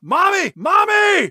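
high-pitched, drawn-out cry for help; mock screaming. Gribble captured by guards, screaming out in mock panic. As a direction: scream it out like a captured child, hammed up. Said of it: "Gribble just starts screaming out".

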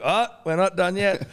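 high-pitched imitated dad showman. Imitates dad promising more gifts.

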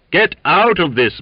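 high, loud defiant shout; courageous boom. A narrator's reading. Waite orders the cook out, loud defiant boom. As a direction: boom it out bravely. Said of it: "boomed Waite courageously".

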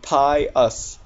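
"pie us" as two separate syllables; broken-down pronunciation. Shown as a demonstration. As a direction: sound out pious as "pie us". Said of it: "which sounds like".

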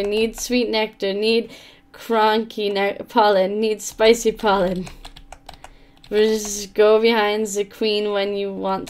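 lightly voiced buzzing bee, slow and hungry; a hint of a greedy little bee begging for nectar; bee character voice. Voicing the bee in the game.

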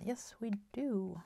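usual speaking voice

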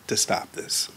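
hushed, breathy whisper of God's words; retold whisper. God whispering his calling to the young boy, soft whisper. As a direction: let it fall away to a bare whisper. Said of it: "whispered to me".

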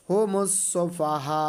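slow "হু মুসু ফা হা", very long last vowel; chant-like "হু মুসু ফা হা", stretched at the end; four-alif elongation. Shown as a demonstration. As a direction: hold the final "হা" on one note. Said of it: "চার আলিফ টানতে হবে".

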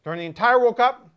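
talking while still chewing; mouth full. Real, not acted. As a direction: outro through a mouthful. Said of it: "misinterpreted how chewy the sandwich was gonna be for my outro".

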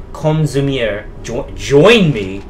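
lightly acted eerie statue, drawn out; whispering statue, voiced. Statue beckons the diary writer to join it, slow mock-eerie voice. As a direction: stretch out a beckoning invitation, not truly whispered. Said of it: "the statue whispered".

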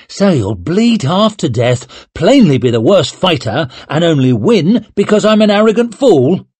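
grinning mockery. Duran mocks Leo grinning.

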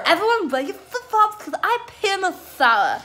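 high-pitched, laughing through the words. Real, not acted. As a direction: giggle out the confession. Laughing confession to camera.

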